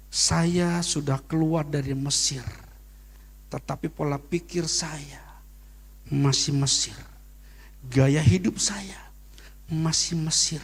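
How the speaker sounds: slow, half-whispered reflection; hushed repeat. Acted. Pastor repeating his message to the church, slow and hushed.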